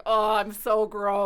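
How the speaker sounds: slow, loud, laughing self-mockery; mock-disgusted laugh at herself; laughing at myself.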